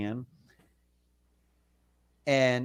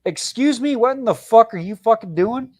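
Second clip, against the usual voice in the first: high, loud, indignant demand; outraged; 7 semitones higher, 5 dB louder than usual. Retold or imitated. Catching girlfriend on avatar dating, outraged high yell. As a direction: snap at her in disbelief, pitched way up. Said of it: "I was like".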